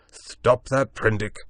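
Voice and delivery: loud, slow urgent cry. A narrator's reading. Montgomery cries out urging Prendick to stop. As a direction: beg him to stop, loudly. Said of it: "cried Montgomery".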